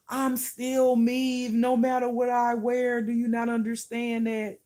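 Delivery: loud, high, emphatic protest; exasperated insistence. Real, not acted. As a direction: drive it home to people who don't get it. Exasperated reply to those viewers.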